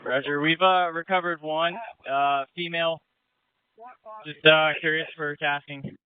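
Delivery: transmitted over a boat radio; radio handset sound, slightly muffled; marine radio. Real, not acted. Radio call during river rescue.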